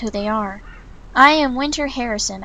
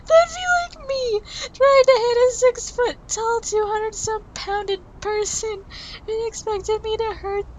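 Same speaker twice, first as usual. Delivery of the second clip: laughing through words; 10 semitones higher than usual. Real, not acted. The reader cracking up at the tiny heroine's punch, laughing through words. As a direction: talk while helplessly laughing. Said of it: "I'm crying".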